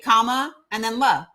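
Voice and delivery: comma, then la, spelled out in sounds; syllable by syllable. Shown as a demonstration. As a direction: break Kamala into comma and la. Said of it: "how I remember it is".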